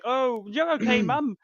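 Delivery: imitating a son talking to his mother; retold son's relief.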